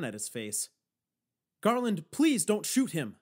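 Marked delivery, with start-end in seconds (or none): 1.6-3.2 urgent plea, higher and louder; begging. A narrator's reading. Begging an old man with a gun not to shoot, pleading. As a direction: plead with him, pitched up. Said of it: "I begged".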